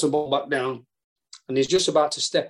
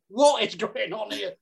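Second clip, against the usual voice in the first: bewildered; 6 semitones higher, slower than usual. Retold or imitated. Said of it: "Jose stood there going".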